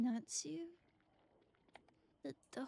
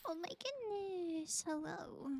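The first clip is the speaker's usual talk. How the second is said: higher drawn-out greeting; higher slow greeting; 3 semitones higher than usual. Pretend. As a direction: echo it back higher and slower.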